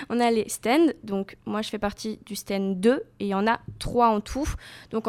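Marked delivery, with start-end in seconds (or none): 0.1-0.9 "stands" said the English way, as /stɛnd/; English pronunciation. Real, not acted. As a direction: give "stands" an English accent inside a French sentence. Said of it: "excusez-moi pour mon accent anglais". (« stands » prononcé à l'anglaise, /stɛnd/)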